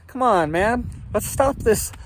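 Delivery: high, loud mock Biden drawl; Biden impression. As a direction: play a hammed-up Biden scolding. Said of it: "like Biden".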